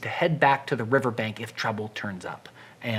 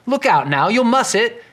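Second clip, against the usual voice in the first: rising alarm; 8 semitones higher, 6 dB louder than usual. Acted. Lulu alarmed.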